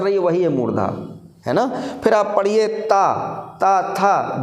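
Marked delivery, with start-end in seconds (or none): 2.7-4.4 ता, था with the tongue touching the teeth; teacher's separated dental ता, था; dental sounds demonstrated. Shown as a demonstration. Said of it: "जीभ दांतों में लग रही है".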